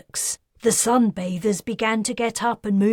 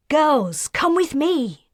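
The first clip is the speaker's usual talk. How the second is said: urgent mother; 8 semitones higher, 5 dB louder than usual. A narrator's reading. Mother calls children away urgently.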